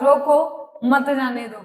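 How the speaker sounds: रोको alone, short break, then मत जाने दो; pause after रोको. Shown as a demonstration. Teacher repeats the first comma example, pausing after रोको. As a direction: set रोको apart, keep मत जाने दो together. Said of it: "पहला बोला है रोको, उसके बाद क्या लगा है हमारा? कॉमा".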